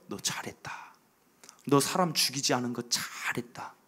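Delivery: whispered praise, soft and low; God's whisper. Acted. God praising David for sparing Saul, in a whisper. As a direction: breathe approval to David.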